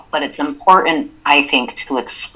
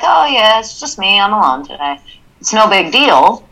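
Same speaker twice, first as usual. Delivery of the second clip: nonchalant; 4 semitones higher than usual. Shown as a demonstration. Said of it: "in a tone that is simply nonchalant".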